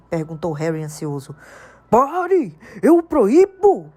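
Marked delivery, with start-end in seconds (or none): 1.9-3.9 high, loud, frightened yell; panicked shout. A narrator's reading. Uncle Vernon panicking, shouting to stop Hagrid. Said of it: "gritou tio Walter em pânico".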